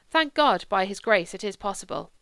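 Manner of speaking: a touch of fervent thankfulness; lightly voiced priest. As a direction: lightly lift the opening, then settle. Priest's reply in story.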